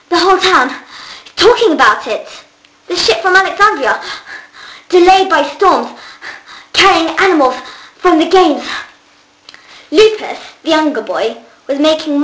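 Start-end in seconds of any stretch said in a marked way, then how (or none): 0.1-8.7 higher, louder excited rush; breathless excitement. Acted. Boy tells friends the news at the door, excited and breathless. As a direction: pour out the big news in a rush.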